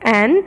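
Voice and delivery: एन said alone as the first sound of "wanted"; isolated sound. Shown as a demonstration. Teacher isolating the first of two sounds, syllable demo. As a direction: sound out एन by itself. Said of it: "first was is".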